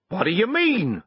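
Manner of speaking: high, indignant question; angry farmer caught off guard; startled in rage. A narrator's reading. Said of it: "startled in the midst of his rage".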